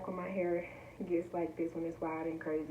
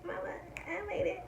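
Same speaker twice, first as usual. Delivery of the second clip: high whispered repeat; whispered joy; 13 semitones higher than usual. Shown as a demonstration. Vlogger celebrating her sponsor, high whisper. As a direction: whisper it in disbelief.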